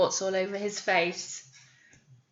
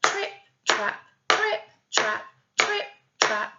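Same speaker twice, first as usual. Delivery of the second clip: tapped hoof noise; 10 semitones higher, 3 dB louder than usual. Shown as a demonstration. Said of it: "Wonder if I can tap trip, trap".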